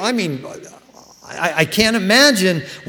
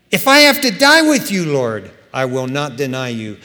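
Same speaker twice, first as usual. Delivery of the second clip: vehement vow; 2 semitones lower, 5 dB louder than usual. Retold or imitated. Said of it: "Peter spoke more vehemently".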